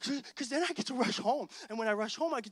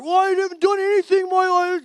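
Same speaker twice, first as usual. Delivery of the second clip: raised voice, high, pleading; loud protest; 8 semitones higher, 10 dB louder than usual. Retold or imitated. Late friend protesting to the waiting group, loud. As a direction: protest he is not ready.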